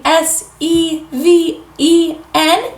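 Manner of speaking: spelled out. Shown as a demonstration.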